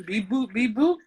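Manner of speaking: playful alien beeping; mock alien noises. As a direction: beep like a cartoon alien. Imitates aliens looking for people.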